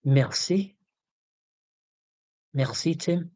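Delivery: lightly French "Merci", rolled r; French accent. Shown as a demonstration. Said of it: "is that my attempt at French".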